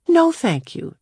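put-on high, crisp young girl. A narrator's reading. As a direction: decline politely as a girl. Claudia declining the mirror.

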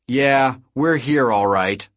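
slow, pointed, anger held in check; seething but keeping a lid on it; barely contained rage. A narrator's reading. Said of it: "the barely contained rage in her voice".

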